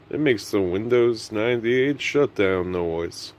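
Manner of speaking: lightly voiced drawling cowboy narrator; a hint of Sam Elliott, unhurried storyteller. Vlogger explaining his bedtime brain to viewers, mock Sam Elliott. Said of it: "doing this in a Sam Elliott impression".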